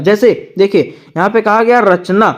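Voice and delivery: ordinary talk, nothing marked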